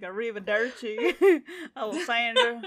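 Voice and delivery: imitating a Southern accent, amused; laughing mock Southern Italian; Southern American accent. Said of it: "a Southern American accent".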